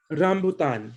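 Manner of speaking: "rambutan" with a rolled R at the start; Tagalog rolled R. Shown as a demonstration. Teacher showing R placement, "rambutan" with rolled R. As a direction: say "rambutan" in a Tagalog accent, rolling the R. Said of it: "saying it in a Tagalog accent".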